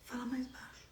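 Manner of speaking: hushed, discreet request. Shown as a demonstration. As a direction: drop to a near murmur to hush someone. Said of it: "só fala assim".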